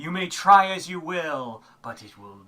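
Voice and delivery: loud, over-dramatic, posh, grandly theatrical narrator voice. Describing a game's narrator, the speaker mimics him, mock-dramatic. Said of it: "he's being kind of dramatic and over".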